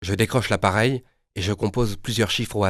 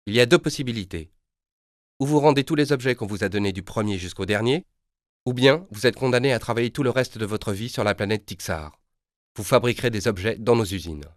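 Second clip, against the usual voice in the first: sinister tone; 3 semitones higher than usual. Acted. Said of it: "d'un ton sinistre".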